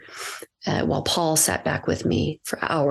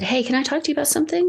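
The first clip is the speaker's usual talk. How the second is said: put-on teen boy; 10 semitones higher, much faster than usual. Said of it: "And he said".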